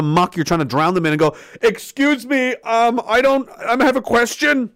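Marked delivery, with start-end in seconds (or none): 1.6-4.7 slightly high, hesitant voice; lightly voiced timid person asking permission; meek questioner. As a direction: politely mimic a hesitant little citizen. Acting timid questioner sticking hand up.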